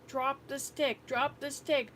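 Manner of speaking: retold yelling. Grandmother retelling yelling at the girl by the fire, building yell. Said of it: "I'm yelling at her".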